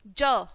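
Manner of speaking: ज as an isolated "juh", not "jay"; phonics sound. Shown as a demonstration. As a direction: sound out ज for young learners. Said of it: "ज बोलेंगे इसको". (ज को अलग ध्वनि की तरह बोलें)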